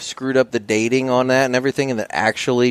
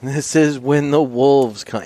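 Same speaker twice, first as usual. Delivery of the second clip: ominous trailer voice; 4 semitones higher, much slower than usual. Acted. Ominous movie-trailer line.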